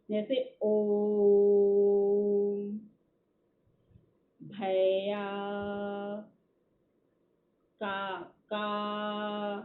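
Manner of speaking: "ओम" held very long and slow, the last vowel of "भैया" and "काका" stretched out; prolonged vowel demo. Shown as a demonstration. Teacher showing the pluta vowel, long chanted stretch. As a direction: chant the end vowel three times its length, like a call. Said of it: "ये लंबा खींचा जा रहा है".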